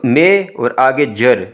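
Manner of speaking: मे and जर said slowly as separate parts; syllable breakdown. Shown as a demonstration. Teacher splitting major for students, slow मे and जर. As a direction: break it up as मे, then जर with a j sound. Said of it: "ये जीम की आवाज़ निकाल रहा है".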